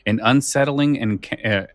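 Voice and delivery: measured, dramatic trailer narration; trailer read. Acted. Host reading the episode blurb to listeners, dramatic promo voice. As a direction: pitch it like a spooky radio promo.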